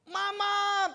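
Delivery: high, loud call of "Mama" across the flood; desperate husband calling out; retold shout. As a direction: shout "Mama" to the wife on the roof.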